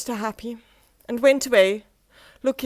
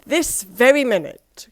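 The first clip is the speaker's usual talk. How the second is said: eager cry; 4 semitones higher, 9 dB louder than usual. Acted. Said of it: "cried Mister Forgetful".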